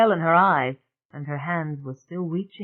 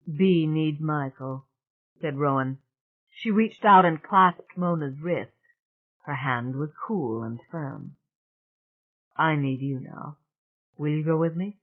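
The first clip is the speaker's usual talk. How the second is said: hoarse and small. Acted. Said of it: "voice hoarse and small".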